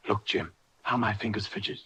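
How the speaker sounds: put-on a mild plea to the boy; pleading. A narrator's reading. Sick captain pleading with Jim for rum, mild plea. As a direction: beg him gently for rum. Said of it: "in the pleading tone".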